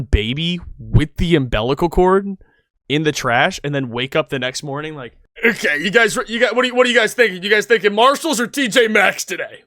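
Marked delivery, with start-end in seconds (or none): 5.4-9.6 high, fast, breezy voice, as if nothing happened; mock chipper shopper. Finder chirping to friends about going shopping, high and fast mock breeziness. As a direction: play it airy and carefree, a mocking caricature. Mocking the dumpster finders' morning.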